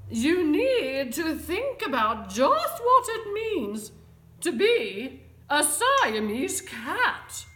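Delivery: loud, high, heavily stressed scolding; stern lecture. A narrator's reading. Mother tells kitten to think about being a cat, lecturing. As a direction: hammer each item home like a fed-up mother. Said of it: "The lecture went on".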